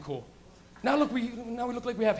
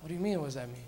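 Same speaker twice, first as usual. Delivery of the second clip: put-on kid; 7 semitones lower, 8 dB quieter, faster than usual. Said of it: "He goes".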